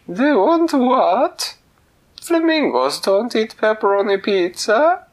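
very high, loud, slow astonished cook. Acted. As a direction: squeal it in disbelief. Kitchen cook surprised.

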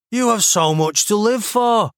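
mock-earnest, little conviction; half-hearted pleading. A narrator's reading. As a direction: plead like an unenthusiastic script read-through. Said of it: "was the relaxed tone of the second man".

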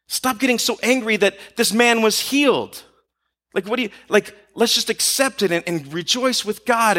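imploring, mildly exasperated appeal; Peter. Acted. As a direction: urge them to let go of anger. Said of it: "I can picture Peter pleading with them".

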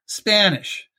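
Baltimore accent. Real, not acted. Talking languages on air, slips into Baltimore accent. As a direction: say Spanish the Baltimore way. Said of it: "notice how I said that in the Baltimore accent".

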